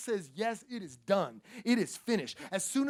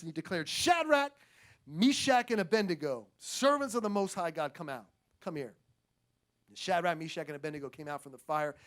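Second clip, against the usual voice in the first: steady, measured Bible reading; a reading voice, a little lower; scripture reading; 3 semitones lower than usual. Acted. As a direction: read the passage to the church. Reads scripture.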